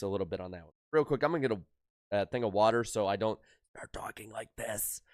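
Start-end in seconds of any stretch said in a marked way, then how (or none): 3.8-5.0 demonstrating a voice worn out from singing; strained, worn-out voice. Shown as a demonstration. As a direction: briefly put on a tired, sung-out voice. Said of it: "it takes a toll on the voice".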